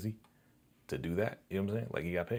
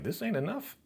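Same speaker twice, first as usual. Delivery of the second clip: higher, bratty imitated complaint; mock girlfriend; 10 semitones higher, 4 dB quieter than usual. Girlfriend handed lunch money, high mock complaint. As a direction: mimic her turning up her nose.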